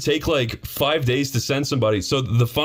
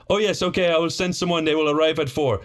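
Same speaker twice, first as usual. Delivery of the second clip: mock landlord; 4 semitones higher than usual. Landlord voiced in story.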